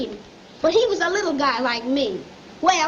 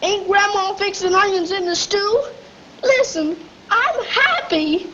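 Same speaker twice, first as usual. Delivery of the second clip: denying tears. Acted. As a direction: insist you're fine while close to crying. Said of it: "what are you crying about".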